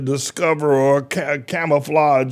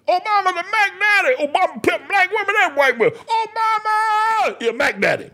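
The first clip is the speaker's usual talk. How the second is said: very high, strained falsetto cry; wailing preacher falsetto; high-pitched squeal; 13 semitones higher than usual. Real, not acted. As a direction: squeal it out, stretching the name long. Preacher erupts repeating his claim.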